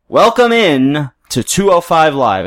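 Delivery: lightly voiced, slow announcer intro; a hint of a TV host greeting; announcer impression. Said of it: "and he says".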